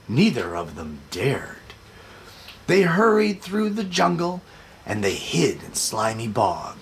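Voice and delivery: put-on lilting read-aloud for children. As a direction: read it like bedtime to little kids. Reading picture book aloud.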